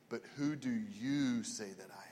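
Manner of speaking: low, near-whispered question; soft, intimate and searching; hushed question. Retold or imitated. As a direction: drop to a whisper, as if putting it to close friends. Retold Jesus stops, asks disciples.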